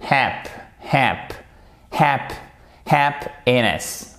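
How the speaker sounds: "happiness" split after the p, HAP then iness; drilled syllable by syllable; first syllable ends on P. Shown as a demonstration. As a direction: close "Hap" firmly on P, then finish the word. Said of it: "elle va jusqu'au P".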